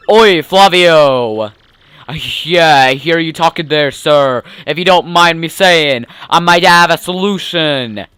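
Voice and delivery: lightly voiced gruff deckhand; a hint of a salty crewman calling out; rough sailor voice. Second sailor character voiced.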